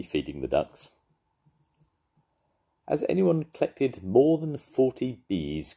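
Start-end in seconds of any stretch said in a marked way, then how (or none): 2.9-5.7 high, slow announcing judge voice; judge calling out. A narrator's reading. Judge announcing to the contestants, slow high call. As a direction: call it to the crowd like an official. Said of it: "called the judge".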